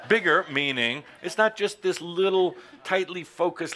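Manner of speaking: words bubbling with laughter; laughing. Real, not acted. Speaker laughing at own point, talking through laughter.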